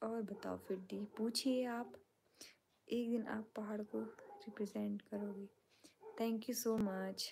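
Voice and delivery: soft whisper reading fan comments late at night. Real, not acted. Streamer whispering viewers' comments aloud to her fans. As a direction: hush it, others are asleep.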